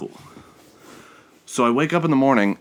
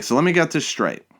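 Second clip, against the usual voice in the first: exasperated; 8 semitones higher than usual. Retold or imitated. Exasperated with customer service.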